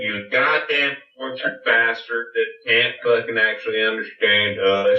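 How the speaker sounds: Southern drawl. Pretend. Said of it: "Whenever we talk like this".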